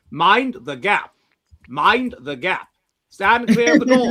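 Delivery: put-on slow, booming old Underground announcement; authoritative posh announcer. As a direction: command the platform in a posh voice. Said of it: "I want a authoritative".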